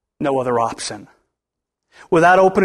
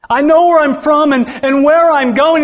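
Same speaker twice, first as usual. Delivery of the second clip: voicing Jesus; 6 semitones higher, 5 dB louder than usual. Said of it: "This is Jesus speaking".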